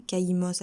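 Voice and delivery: "K I M O S" as ka-I-mos, weight on the I; "K I M O S" said as one word, stressed in the middle. Shown as a demonstration. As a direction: lean on the "I" in "K I M O S". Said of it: "accent sur le I".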